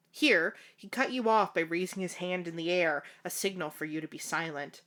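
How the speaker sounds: measured fanfiction read-aloud; story narration. A narrator's reading. Narrator telling the housekeeper's story, measured read-aloud. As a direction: narrate it evenly, like an audiobook.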